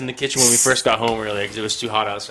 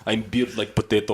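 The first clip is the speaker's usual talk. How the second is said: mock Russian accent with amusement. Host joking as a strongman, mock Russian accent. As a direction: boast in a put-on Russian accent. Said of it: "Do you have a Russian voice".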